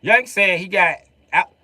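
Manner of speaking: high, loud imitation of confused locals; baffled Floridian. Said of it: "They're like".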